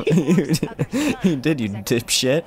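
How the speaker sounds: laughing while teasing. Real, not acted. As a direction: giggle through it. Laughing at friend.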